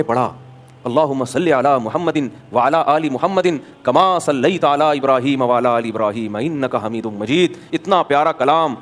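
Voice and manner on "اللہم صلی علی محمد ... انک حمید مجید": recitation. Real, not acted. Recites the durood prayer.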